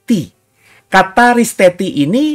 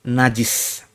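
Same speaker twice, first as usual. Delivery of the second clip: calling out; 3 semitones lower, 5 dB quieter, much slower than usual. Retold or imitated. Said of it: "sambil berseru".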